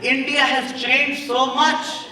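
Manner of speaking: high, loud bragging auntie voice; boastful auntie, rising to a cry; auntie impression. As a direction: crow it like a proud Indian auntie, building to a shout. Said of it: "she goes".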